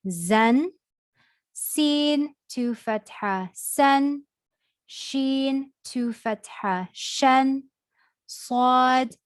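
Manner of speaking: steady, rhythmic teacher recitation; reciting the letter drill. Shown as a demonstration. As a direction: call out each letter with its tanween sound, clearly.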